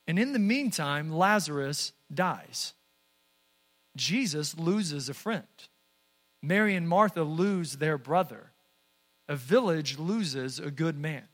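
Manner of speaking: low, hushed, grave telling; sombre. Real, not acted. Preacher telling congregation of Lazarus's death, sombre. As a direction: drop the voice softly for a death, with long pauses.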